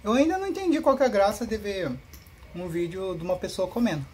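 talking with a mouth full; words pushed out around a big bite; wolfing down food. Real, not acted. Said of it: "eu tava falando com a boca cheia".

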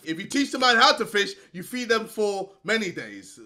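If you teach the man how to fish rushed out fast; quick excited retelling of the saying. Shown as a demonstration. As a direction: rattle it off in a hurry. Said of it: "I'm doing the madness stuff".

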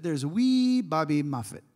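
amateur attempt at a Scottish brogue; bad Scottish accent. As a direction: put on a hammed-up Scottish accent. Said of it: "That's a bad Scottish accent".

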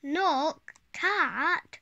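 loud alarmed call. Acted. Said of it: "said in alarm".

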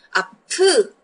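아프 with a puff of air on 프; aspirated sound. Shown as a demonstration. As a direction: stress the airy p in 아프. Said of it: "âm, âm gió đúng không?".

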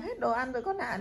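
gentle. Shown as a demonstration. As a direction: say it gently to the child. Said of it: "chỉ cần nói nhẹ nhàng".

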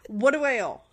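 amused, laughing through the words; laughing question. Real, not acted. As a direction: ask it through real laughter. Laughing over forgotten hotel debt.

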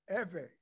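Eve in two syllables, EH-veh; Spanish pronunciation. Shown as a demonstration. Man explains his name's Spanish start, Eve as EH-veh. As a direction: sound both vowels of "Eve", EH-veh. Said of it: "in Spanish".

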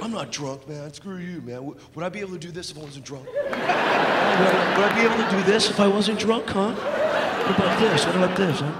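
prove you're sober, badly; drunk friend. Friend insisting to his pals he is not drunk, mock slurred. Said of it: "that one friend who's like".

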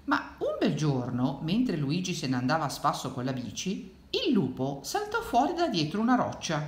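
put-on suspenseful read-aloud to children; dramatic picture-book reading; story narration. A narrator's reading. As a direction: build to the sudden appearance, pitch rising.

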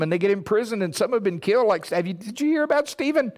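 high-pitched, anxious pleading with God; panicked high whine, loud and pleading; frightened Ananias, high voice. Retold or imitated. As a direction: squeak it out like a scared disciple. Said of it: "I have to add a little inflection".

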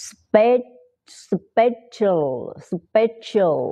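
"special" broken down, then repeated with a schwa ending; schwa pronunciation. Shown as a demonstration. Teacher repeating for learners, schwa pronunciation drill. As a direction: drill "special", stressed start and weak "shul". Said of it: "ออกเป็นเสียงชวานะ".

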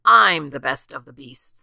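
loud, lightly voiced gruff bear; boastful bear. A narrator's reading. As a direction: claim it forcefully as the rival bear. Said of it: "said the bear".

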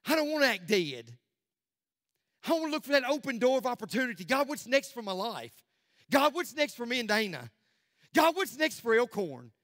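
impassioned pulpit appeal; fervent preaching. Real, not acted. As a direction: preach it out with urgent repeated appeals. Preaches at full force.

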